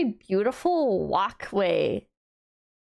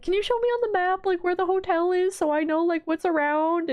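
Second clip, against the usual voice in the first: higher, fast eager mom voice; imitating her mom; 7 semitones higher than usual. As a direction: play the eager mother, lightly. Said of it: "She's, like, always like".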